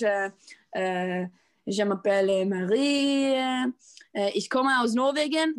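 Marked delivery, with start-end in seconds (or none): 1.7-3.3 slow schoolbook French "Je m'appelle Marie"; French phrase. Shown as a demonstration. Reciting school French to her co-host, slow and careful. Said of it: "I learned how to say". 4.3-5.5 ninth-grade German "Ich komme aus Norwegen"; German phrase. Shown as a demonstration. Slipping into German by mistake, schoolbook delivery. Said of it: "That's German".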